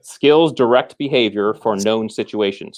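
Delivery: slow, measured restatement for the listener; slow repeat. Shown as a demonstration. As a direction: say it again slowly. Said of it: "say that again slowly".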